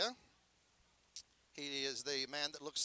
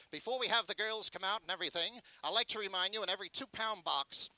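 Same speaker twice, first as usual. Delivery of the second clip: candy pitch; 2 semitones higher than usual. Shown as a demonstration. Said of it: "we used to do a candy pitch".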